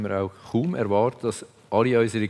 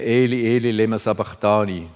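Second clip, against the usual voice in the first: a raised cry of Eli, louder; 4 dB louder than usual. Acted. Jesus on the cross cries out to God, raised voice. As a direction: call out the Aramaic words in anguish. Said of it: "schrie Jesus mit lauter Stimme".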